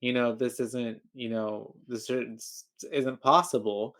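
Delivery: slow, measured retold explanation; drilling it in. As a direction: spell it out slowly, as if to a child. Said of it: "really drill it in".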